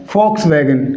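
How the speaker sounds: "Volkswagen" opening with F, as "Folks-vagen". Shown as a demonstration. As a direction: say "Volkswagen" with an F for the first V. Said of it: "वी का उच्चारण क्या होगा".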